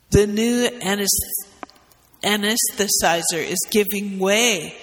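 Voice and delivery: shouted. Acted. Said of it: "shouted an intern".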